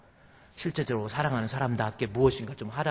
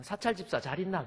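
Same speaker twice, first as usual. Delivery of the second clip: evasive question; 6 semitones higher, 8 dB quieter than usual. Retold or imitated. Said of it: "도저히 사랑한다는 말을 못하고".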